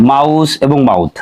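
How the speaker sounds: মাউস and মাউথ said slowly with a full au glide; slow model words. Shown as a demonstration. Teacher to students, modelling মাউস and মাউথ slowly. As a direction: stretch the au in মাউস and মাউথ for the class. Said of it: "যেমন আমরা এখানে দেখি হাউস".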